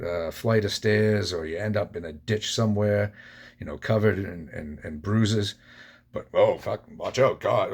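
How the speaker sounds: animated, exasperated mockery; mock someone scandalized by the mere mention; scoffing, worked-up sarcasm; sarcastic mock outrage. Sarcastically voices objectors to God talk.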